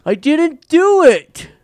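very high, very loud, drawn-out creature cry; full-volume high monster wail; beast's frantic protest. Acted. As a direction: shriek it slowly as a cornered beast. Beast repeats its only phrase.

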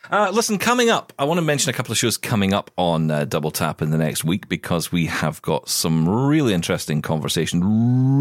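mild DJ hype on the trailer; radio DJ voice. Acted. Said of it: "I don't know why I did it like that".

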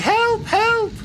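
very high, put-on cry of distress; mock scream for help. Accosted woman in the cart calling for rescue, mock screaming. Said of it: "like, screams and, like, she's like".

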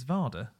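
"Varda" with a clear d in the middle; correcting pronunciation. Shown as a demonstration. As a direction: say "Varda" as VAR-da, sounding the d. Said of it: "not sure about your pronunciation".

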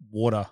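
Water as waw-tuh, no r; Australian pronunciation. Shown as a demonstration. Showing how it is for Australians, Water as waw-tuh. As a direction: round the vowel and drop the r in Water. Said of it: "Do you know what it is for Australians?".

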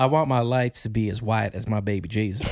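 put-on playful Southern accent, half laughing; mock Southern accent. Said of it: "What accent was that, Ben?".

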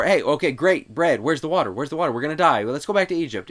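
hammed-up despair over water; mock grumbling Israelite. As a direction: act out the whining crowd. Israelites complaining about water.

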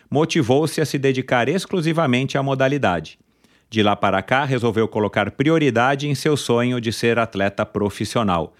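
upbeat podcast host intro; announcer intro. Acted. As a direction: build up to the guest's name. Announces the guest's biography.

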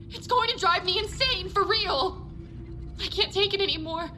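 frantic. Acted. Recording of a terrified woman.

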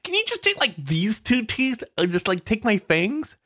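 high, fast, eager pleading; excited high-pitched asking; giddy request. Pretend. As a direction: beg the dentist with childish glee. Excited pleading with imagined dentist.

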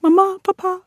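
put-on high kid voice to parents; imitating child self. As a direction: squeak it like a little girl. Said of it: "And I'm like".

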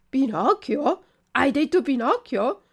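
high, eager repeated question; startled surprise. Acted. Puppet hearing his own name from the pigeon, startled and eager. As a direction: jump at the name. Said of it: "ripeté il burattino, saltando".

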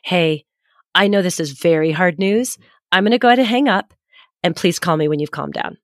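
retold kindly, measured. Mother tells her upset son she's hanging up, kindly. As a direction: gently set a boundary, as if retelling it. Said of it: "so I said kindly".

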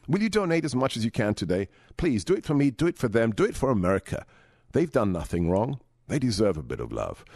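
earnest radio donation appeal; measured fundraising read; charity appeal read. Acted. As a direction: appeal steadily to kind listeners. Host reads charity appeal.

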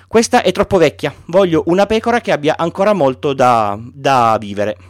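put-on a small boy insisting on his sheep; gently voiced child asking for a sheep; Little Prince.

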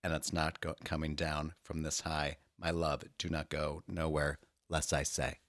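dramatic reading. Pretend. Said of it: "brief dramatic reading".

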